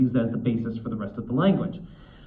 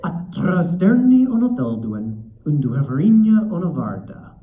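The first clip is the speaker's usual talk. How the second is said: horrendous Elvish accent; 4 semitones higher, 4 dB louder than usual. Shown as a demonstration. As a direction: recite Elvish, rolling the R's with the uvula. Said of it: "I have a horrendous Elvish accent".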